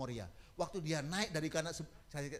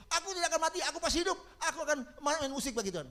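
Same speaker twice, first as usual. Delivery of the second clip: fervent proclamation; 11 semitones higher, 6 dB louder, faster than usual. Retold or imitated. Patient joins reciting.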